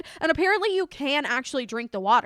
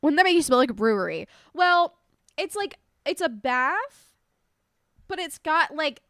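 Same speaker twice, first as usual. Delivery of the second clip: stuffy allergy voice; talking through allergies; 2 semitones higher than usual. Real, not acted. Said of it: "my allergies just".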